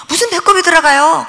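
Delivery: same question, falling flatly this time; mother repeats her doubt, falling tone; repeated disbelief. Retold or imitated. 무슨 배꼽이 들어가요 said falling, insisting. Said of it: "그랬더니".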